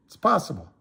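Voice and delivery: ordinary delivery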